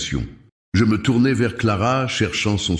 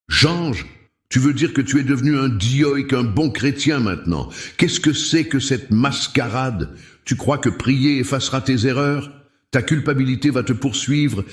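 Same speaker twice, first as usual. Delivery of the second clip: higher-pitched taunting sneer, with a laugh; mocking scorn; 6 semitones higher than usual. Julien mocks his old friend's new faith, higher sneering taunt. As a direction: jeer at every word as a joke.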